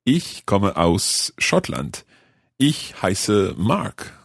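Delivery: very slow, word by word German; slow careful German. Shown as a demonstration. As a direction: sound out each German word slowly. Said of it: "learner speaks German slowly".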